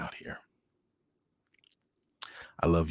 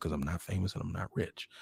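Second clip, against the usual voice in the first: plain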